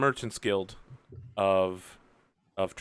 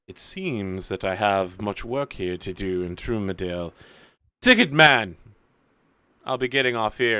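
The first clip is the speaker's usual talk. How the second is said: lightly voiced formal agent; 4 semitones lower than usual. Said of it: "and says".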